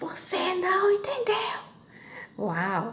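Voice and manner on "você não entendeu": mock sudden, high-pitched shout. Retelling how a woman shouted back on the phone: imitating someone shouting. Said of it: "ela gritou".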